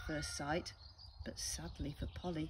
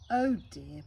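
sighing parrot; 7 dB louder than usual. Acted. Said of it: "Polly sighed".

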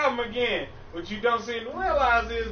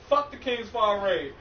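salty curse. Real, not acted. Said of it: "You've already said that".

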